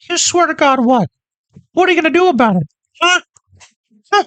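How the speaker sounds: high mocking challenge; high taunting cartoon voice. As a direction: taunt him in a squeaky cartoon voice.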